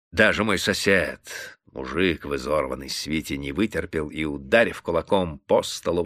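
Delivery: plain reading voice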